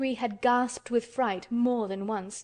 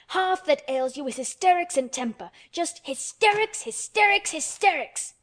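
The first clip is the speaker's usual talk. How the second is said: hysterics rising higher each time, loud; stamping scold; 7 semitones higher, 5 dB louder than usual. A narrator's reading. Mary scolding the boy, stamping on each hysterics. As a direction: hammer the word hysterics. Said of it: "she stamped each time she said it".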